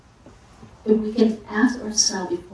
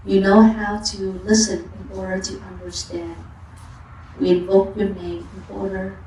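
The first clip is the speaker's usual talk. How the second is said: contemplation reading. Acted. Teacher reads chanting-book invocation to Avalokiteshvara, measured recitation. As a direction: read it as a steady invocation.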